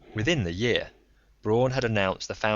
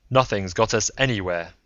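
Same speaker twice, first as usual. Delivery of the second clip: louder, harsh cut-in; harsh interjection; 5 dB louder than usual. Acted. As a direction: bite the words off in frustration. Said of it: "interjected harshly".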